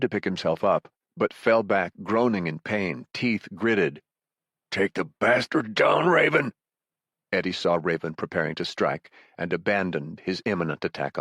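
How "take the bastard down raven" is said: shouting. Acted. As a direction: push it out through the pain. Wounded Calvin cheers Raven on.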